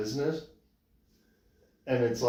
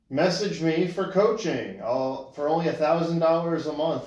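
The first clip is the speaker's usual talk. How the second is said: mock coaching ad, slightly raised; sarcastic sales pitch; 3 semitones higher, 3 dB louder than usual. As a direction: recite it like a tongue-in-cheek promo. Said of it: "in a very sarcastic caption".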